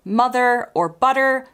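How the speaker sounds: "mother" and "butter" ending in a clear R; American "mother" and "butter", R fully pronounced; strong American R. Shown as a demonstration. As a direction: sound the final R in "mother" and "butter". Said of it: "clear, strong R sound".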